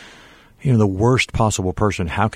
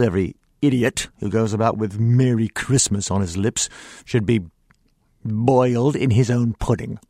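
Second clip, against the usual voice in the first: mean Scrooge; 3 semitones higher than usual. Acted. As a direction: spit it out like a bitter old miser scorning his nephew. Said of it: "I'm gonna do some mean Scrooge".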